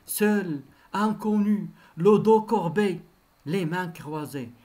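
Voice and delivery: short declaimed phrases, set apart; poem recitation. Acted. Teacher quoting the poem to show the author's age, declaimed. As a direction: recite each short phrase as measured verse.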